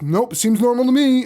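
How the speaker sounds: mock chirpy voice, pitched high; lightly voiced manic cheer; creepy cheerful. Recapping the movie, a hint of unhinged Billy.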